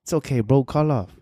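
mock-soothing, let him off easy; baby soft voice. Inner voice tempting him to quit, soft coaxing. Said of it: "that baby soft voice, the one you wanna hear".

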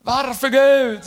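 high, drawn-out mock "why" cry; imitated calling out to God. Pastor imitating believers questioning God, high drawn-out cry. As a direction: plead upward, stretching the words. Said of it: "Tänk ofta vi ropar så här".

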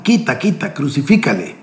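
crowd shouting. Acted. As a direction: cry out as the angry crowd.

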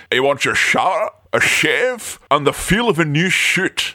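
slurred Connery voice; Sean Connery impression. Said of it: "have fun with Sean Connery's voice".

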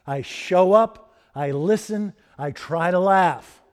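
slow, spaced-out clauses; deliberate quote. Retold or imitated. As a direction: set each short claim apart, unhurried. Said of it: "She says".

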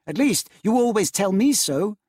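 hint slyly; wife dropping a hint to her husband. A narrator's reading. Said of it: "hinted Scrooge's niece".

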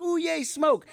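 put-on high, childlike ooh yay; mock delight. Co-host mimicking himself thrilled by scare-zone smoke, squealing high. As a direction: squeal with innocent glee at the fog. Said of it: "and I'm like".

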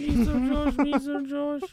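little girl with a put-on Hispanic accent, high up; a daughter greeting dad in a thick Hispanic accent; high mock Hispanic accent. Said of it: "Stereotypical Hispanic accent".

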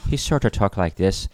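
a touch of mock Irish; imitated Irish accent. Describing a guy in New York, light Irish accent. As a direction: lightly put on an Irish lilt. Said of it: "like, an Irish accent".

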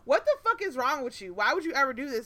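retold heated telling-off; cussing him out. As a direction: lay into him with quick, heated questions. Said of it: "I'm cussing him out".

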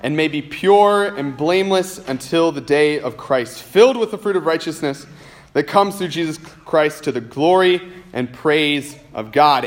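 measured, unhurried Bible reading; scripture reading. Acted. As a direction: read the verses with reverent care. Pastor reads scripture passage aloud.

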